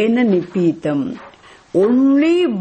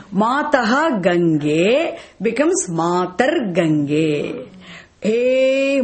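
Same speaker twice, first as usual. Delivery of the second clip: slow demonstration; much slower than usual. Shown as a demonstration. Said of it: "I just want to say it".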